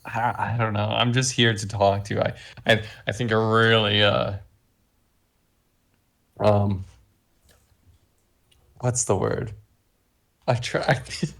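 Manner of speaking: groping for the word with long pauses; in character, stall and search for the word; hesitant, pausing. Acted. Player in character fumbling a compliment to a pilot, hesitant. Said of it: "saying that all in my character, by the way, where I'm just, like, clearly pausing".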